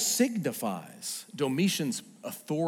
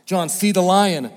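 calling elder; 4 semitones higher, 11 dB louder than usual. Retold or imitated. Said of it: "Head in his hands".

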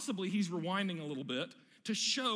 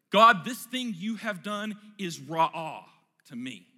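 indignant Jonah; 9 dB louder, slower than usual. Acted. Jonah's outraged reply to God.

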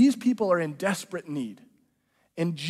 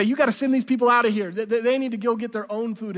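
urgent disciples; 3 semitones higher, 3 dB louder than usual. Retold or imitated. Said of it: "That they say".

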